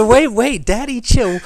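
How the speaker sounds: imitating the guy. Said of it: "He said".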